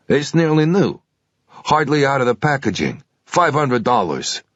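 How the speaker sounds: a keen clerk talking up his stock; pawnshop salesman. Acted.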